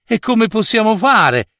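high-pitched, puzzled question; questioning king. A narrator's reading. King asks the old woman how to get up there, questioning. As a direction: ask as a king at a loss. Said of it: "domandò il re".

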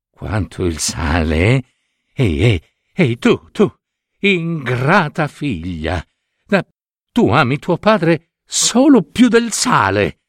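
mock scolding an ungrateful sister; indignant sisters. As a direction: sisters turning on Maruška. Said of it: "saltarono su le altre sorelle".

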